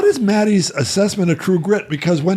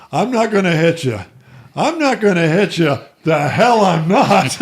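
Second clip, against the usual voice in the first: light imitation of an upset cowboy, drawing out the last line; John Wayne. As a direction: hold back, then stretch out the defiant finish. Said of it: "really upsets Wayne, and he goes".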